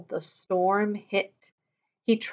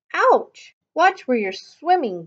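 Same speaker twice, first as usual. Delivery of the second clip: grumbling; 6 semitones higher, 4 dB louder than usual. Acted. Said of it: "grumbled a voice".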